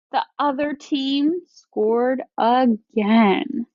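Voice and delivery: slow, let-down reading; disappointed. Shown as a demonstration. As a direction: sigh it out, deflated. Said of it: "I'm using that to change my voice to match".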